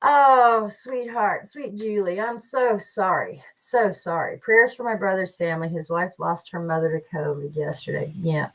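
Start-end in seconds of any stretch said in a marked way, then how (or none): 0.1-4.4 soft, slow condolence; hushed, sincere sorry to a grieving viewer; tender sympathy. Real, not acted. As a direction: comfort a grieving friend gently.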